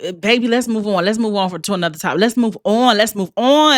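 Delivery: imitating him pushing to change the subject; impatient boyfriend. Mimicking the boyfriend cutting her off, mock impatient. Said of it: "he'd be like".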